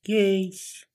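high, hammed-up Australian accent. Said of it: "answer in an Australian accent".

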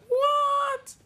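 high shocked "What?". Retold or imitated. Host recalls hearing Yoruba, shocked "What?". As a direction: squeak it out in disbelief. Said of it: "I was like".

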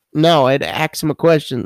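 imitating a Brooklyn coworker's accent, lightly done; a light Brooklyn accent on the quote. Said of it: "uh, from Brooklyn".

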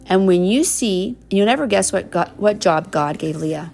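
warm storybook reading; reading to children. Acted. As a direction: read it like a bedtime story. Reading picture book to child.

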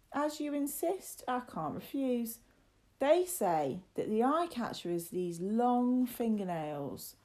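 spooky storyteller, stretching the scary words; ominous. Acted. Lad gives in and describes the monster, ominous. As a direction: draw out the creepy details slowly at the end.

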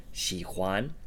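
xi huan, starting on the X sound; Mandarin word demo. Shown as a demonstration. Teacher giving the phrase to like, demonstrating xi huan. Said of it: "the X sound or the xi sound".

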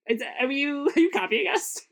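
high, incredulous squeak; rising outraged question; mock-shocked are you copying us; mock accusation. Christians accusing pagans mock.

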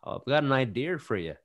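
lightly put-on Irish accent. Co-host offering an idea in a mock Irish accent. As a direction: try a joking Irish lilt. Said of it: "It's Irish".

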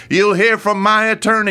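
mock indignant woman on the phone threatening her attorney; mock outraged threat. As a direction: play the offended caller threatening to sue.

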